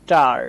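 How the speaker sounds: টার as "taar", long open AH; AH vowel. Shown as a demonstration. Teacher models A before R, AH vowel. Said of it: "উচ্চারণ করছি আ এর মতো".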